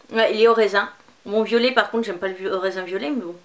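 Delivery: candy held against lips; talking while nibbling candy. Real, not acted. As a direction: mouth partly busy with sweet. Seen 1: purple candy held at lips and bitten while speaking, then lowered.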